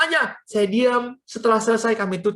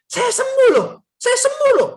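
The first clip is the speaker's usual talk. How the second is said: loud, very high-pitched retold cry; acted high yell of amazement; astonished shouting; 7 dB louder than usual. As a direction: imitate an overjoyed shout of discovery. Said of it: "Dia teriak".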